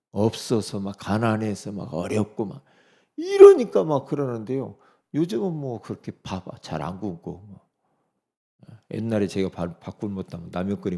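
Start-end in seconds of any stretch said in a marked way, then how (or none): none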